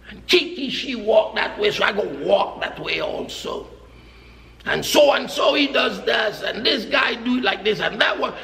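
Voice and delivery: mock copycat talk. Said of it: "He said".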